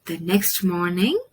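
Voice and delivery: put-on gentle storybook reading for young listeners; story narration. Storyteller reading a bird story to children, gently. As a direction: read it like a picture book to kids. Reads picture book aloud.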